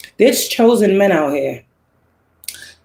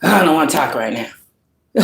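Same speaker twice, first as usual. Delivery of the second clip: low, muttered brush-off, much softer, mock-imitating; dismissive brush-off; 4 semitones lower, 3 dB quieter than usual. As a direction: sneer it off like an annoyed ex dodging calls. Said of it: "You calling people's phone".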